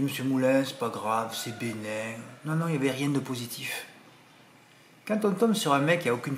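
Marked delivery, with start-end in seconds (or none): 0.0-2.2 mildly reassuring, settling lower; soothing. Acted. Imagined doctor reassuring a patient, gently soothing. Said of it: "apaisantes, soulageantes".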